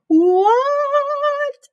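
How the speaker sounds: put-on high, loud kid's "What?"; high froggy voice. A narrator's reading. Froggy shouting back to his father. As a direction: answer back like a cartoon frog.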